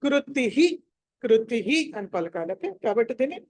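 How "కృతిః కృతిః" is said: కృతిః said "kruti-hi"; visarga as "hi". Shown as a demonstration. Teacher showing how to pronounce it, కృతిః ending in "hi". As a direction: echo the i after the h in కృతిః. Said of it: "తిహి అని పలక".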